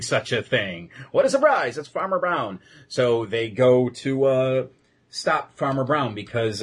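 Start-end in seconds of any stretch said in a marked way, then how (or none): 1.1-2.6 high-pitched fake astonishment; mock surprise. Host reveals the obvious culprit, in mock surprise. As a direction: play up a hammy big reveal.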